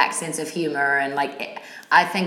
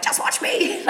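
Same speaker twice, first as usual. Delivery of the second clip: whispered challenge; 13 semitones higher, slower than usual. Retold or imitated. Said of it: "I was like".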